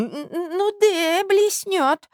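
put-on high stammering old man; high stuttering old man's mumble; mumbled. A narrator's reading. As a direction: stammer it out like a doddering prince. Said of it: "бормотал князь".

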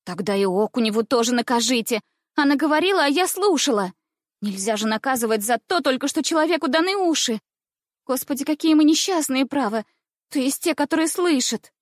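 cheeky schoolgirl. Acted. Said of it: "Не унималась шалунья".

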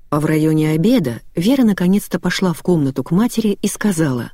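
ordinary delivery

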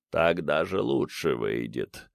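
low creature muttering. A narrator's reading. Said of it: "сказал сам себе гомункул".

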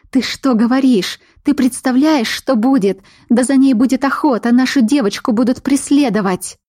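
a frightened mother pushing back hard; alarmed protest. A narrator's reading.

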